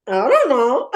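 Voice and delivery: put-on loud, playful Indian accent. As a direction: answer in a hammed-up Indian accent. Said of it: "In my Indian accent".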